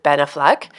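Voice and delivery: "Affleck" with a weak first vowel and stress on the end; Frenchified "Affleck", uh-FLUCK; accented Affleck. Real, not acted. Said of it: "You said that with an accent".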